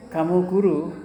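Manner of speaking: Kamu guru? with a rising question tune. Shown as a demonstration. Teacher shows a question made by tune alone, rising. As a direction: let "guru" lift like a question. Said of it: "nadanya nada bertanya".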